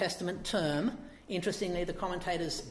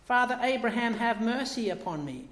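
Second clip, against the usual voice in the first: higher, louder plea for mercy; crying out; 5 semitones higher, 3 dB louder than usual. Retold or imitated. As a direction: beg Abraham for mercy from the flames. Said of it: "he cries out".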